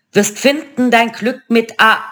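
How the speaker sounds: high, lightly chanting witch; a hint of a prophesying crone; first witch. A narrator's reading. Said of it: "begann die erste".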